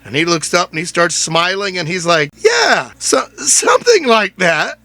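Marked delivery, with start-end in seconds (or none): 2.4-4.8 imitating an excited coworker, pitched high and loud; mock loud reply. Retelling the Subway worker's reply, high and loud. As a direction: blurt it out high and loud, then slower.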